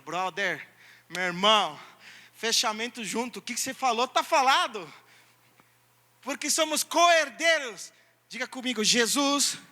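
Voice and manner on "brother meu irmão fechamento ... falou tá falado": casual brotherly. Acted. Christ voiced as buddy.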